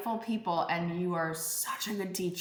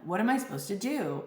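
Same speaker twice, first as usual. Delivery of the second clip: a hint of a lost listener asking, quicker; lightly voiced asker; 3 semitones higher, faster than usual. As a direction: toss off the listeners' question, slightly raised. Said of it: "I would get this question".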